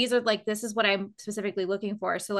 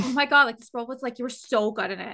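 gushing; faster than usual. Retold or imitated. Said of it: "they're like".

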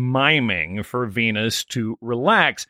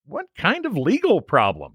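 upset Venus voice; 3 semitones higher than usual. Retold or imitated. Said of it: "Venus is getting upset".

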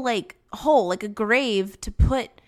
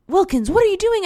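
high, loud mock challenge; imitating a neighbor demanding answers; nosy neighbor; 10 semitones higher, 6 dB louder than usual. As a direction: call it out like a suspicious old neighbor. Voicing the angry old neighbor.

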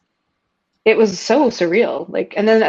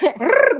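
playful growl; 8 semitones higher than usual. Retold or imitated. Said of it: "spicy, fiery Latina".

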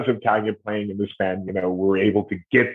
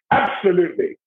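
a rough, higher bad Irish accent; 9 semitones higher than usual. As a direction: toss it off in a clumsy Irish accent. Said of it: "that was a bad Irish accent".

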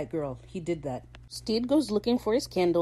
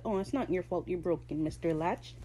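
softer, gently consoling imitation; talking nicely; 5 dB quieter than usual. Imitating Ed consoling the broken latch, talking nicely. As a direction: soothe a broken thing, quietly. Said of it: "talking to it all nice".

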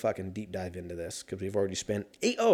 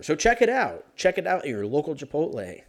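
high, salesy pitch voice; hammed-up commercial plug; mock ad read; 4 semitones higher, 3 dB louder than usual.

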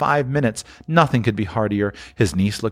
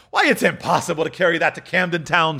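chuckling; 6 semitones higher than usual. Acted. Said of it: "The chuckle with which he said this".

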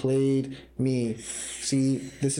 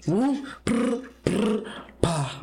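warm-up trills; 7 semitones higher, much slower than usual. Shown as a demonstration. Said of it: "Give me your best grandma impersonation".

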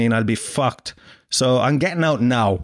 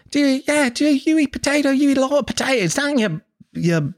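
very high, pestering mock Aussie girl; Australian accent; 13 semitones higher than usual. Australian girl insisting he eats potatoes, high hammed-up Australian accent. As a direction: gabble shrilly in a put-on Australian accent. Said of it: "This is my Australian accent".

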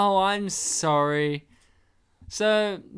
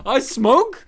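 mock confused patient; 5 semitones higher, 9 dB louder than usual. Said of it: "And he's like".

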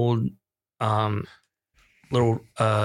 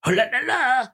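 much higher, a light eerie sing-song; creepy sing-song ghoul; 11 semitones higher than usual. Retold or imitated. The sinister figure jumps out at the dad, mocking sing-song. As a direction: tease like a creeping ghost. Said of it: "The sinister guy is like".

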